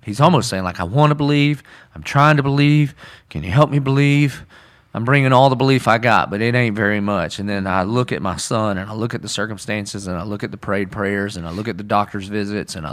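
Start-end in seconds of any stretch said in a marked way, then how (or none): 0.8-7.4 higher, pleading father begging for help; a hint of a desperate father; desperate plea. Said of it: "this dad is desperate".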